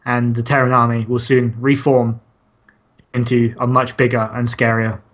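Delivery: hushed, awed nature documentary narration; David Attenborough. Pretend. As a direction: narrate like a wildlife film. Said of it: "In the style of a David Attenborough nature show".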